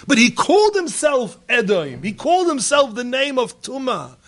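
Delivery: sermon climax on Edom; impassioned preaching. Acted. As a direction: proclaim it with fervor. Preacher returns to full force.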